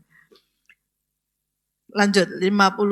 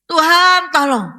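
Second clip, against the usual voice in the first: a louder, higher plea to the Lord; cry for help; 5 semitones higher, 5 dB louder than usual. Retold or imitated. Preacher acting the congregation crying to God, louder. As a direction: call out to God in trouble. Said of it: "kita teriak sama Tuhan".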